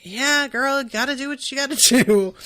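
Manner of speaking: put-on fast, giggling "yeah, girl"; sassy girlfriend voice breaking into a laugh; laughing sassy encouragement. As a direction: cheer her on like a best friend, laughing. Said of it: "and be like".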